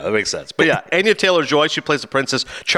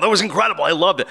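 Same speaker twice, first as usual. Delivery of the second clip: higher-pitched, mildly gushing imitation; mock audience rave; 5 semitones higher than usual. Critic imitating moviegoers walking out delighted, mildly excited.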